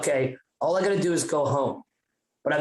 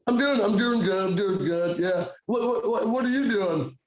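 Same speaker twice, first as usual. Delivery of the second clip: high-pitched, repetitive mock nervousness; hammed-up awkward stammering; nervous small talk; 6 semitones higher than usual. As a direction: act casual while badly panicking inside. High son fakes sober small talk.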